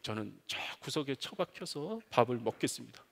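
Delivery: whispered, meek son's promise; humble whisper. Pretend. Imagined son begging to eat in the corner, whispered. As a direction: whisper it like a cowering child. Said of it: "겸상을 할 수가".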